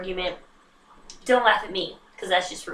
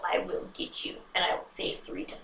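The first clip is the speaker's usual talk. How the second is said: quoting John Cage; 3 semitones lower, 8 dB quieter than usual. Retold or imitated. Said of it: "As in the words of John Cage".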